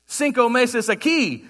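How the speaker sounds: slow, careful Spanish phrasing of the waiter; quoted Spanish. Retold or imitated. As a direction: imitate the waiter's Spanish reply, slowly. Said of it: "responded to me in Spanish".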